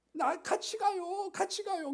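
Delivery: 아주 높고 느리게 조르는 개구리; 높은 목소리로 칭얼대며 따라가는 개구리; 개구리 목소리. Acted. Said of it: "그랬더니 개구리가". (공주를 쫓아가며 조르는 개구리, 높고 느린 목소리)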